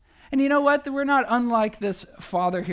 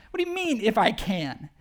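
incredulous Jesus. Retold or imitated. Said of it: "almost like he's surprised".

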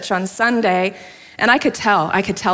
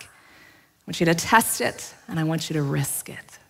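hushed emphasis; 4 semitones lower, 6 dB quieter than usual. Real, not acted. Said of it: "sermon points, delivered softly".

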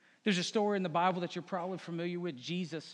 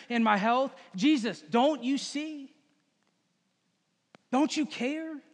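mock whiny protest; 4 semitones higher than usual. Complaining disciples voiced to Jesus.

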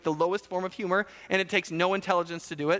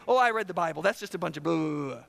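dismissive reader; 4 semitones lower than usual. Acted. Voices a dismissive Bible reader.

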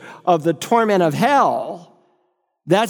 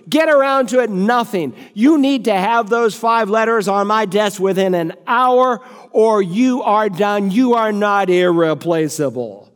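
higher, snapping get around to it; angry threat; 4 semitones higher than usual. Acted. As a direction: threaten the secretary with a mild bark. Director threatens secretary.

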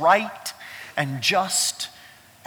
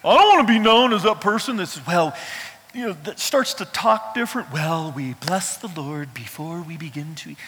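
mock churchy voice. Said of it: "I know what the fear is".

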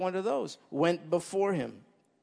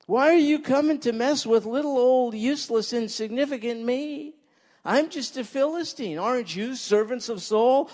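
mock humble, a little higher and sneering; sarcastic taunt; 5 semitones higher than usual. Philistine giant jeering at Israel's ranks, sarcastic. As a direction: play small to mock them. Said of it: "I think he's being sarcastic".

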